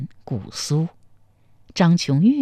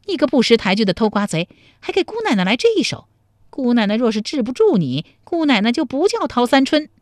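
gritted-teeth threat; 6 semitones higher, faster than usual. A narrator's reading. 陶三春揪着偷瓜贼的耳朵咬牙切齿地威胁. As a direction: spit it through clenched teeth. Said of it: "咬牙切齿地说".

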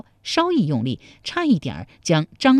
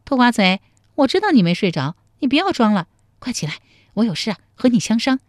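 put-on higher, lightly playful girl's voice; teasing with a smile; 4 semitones higher, faster than usual. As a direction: coax him awake, giggly and teasing. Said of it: "笑嘻嘻地说".

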